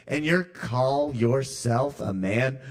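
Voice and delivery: put-on slow, sneering ex-girlfriend voice. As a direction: sneer it like a bitter ex. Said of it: "that's my ex-girlfriend's voice".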